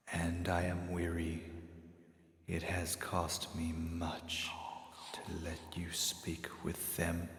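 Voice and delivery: drained and fading; slow weary whispering spirit. Acted. Toll, weary.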